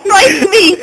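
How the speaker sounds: crying with laughter; laughing. Real, not acted. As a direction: plead through tears of laughter. Trying to stop hiccups.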